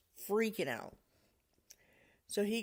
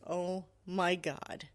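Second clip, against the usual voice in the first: slow, drawn-out realisation; stunned, spaced-out words; retold shock; much slower than usual. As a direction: imitate a father taking in a grim find. Dad discovers the finger in cave.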